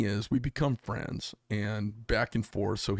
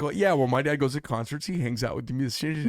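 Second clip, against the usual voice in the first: lightly voiced daughter, a bit raised; imitating daughter; 3 semitones higher than usual. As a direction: retell it with a hint of your daughter. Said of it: "she's like".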